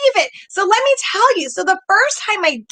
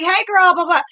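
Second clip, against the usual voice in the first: bestie chat. Retold or imitated. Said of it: "That's how we talk".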